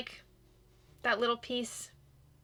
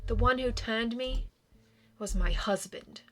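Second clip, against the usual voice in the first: lightly voiced, measured vampire ghost; a touch of solemn regret, pausing between phrases; reserved vampire recalling an old hurt; wistful vampire ghost; 5 dB louder than usual.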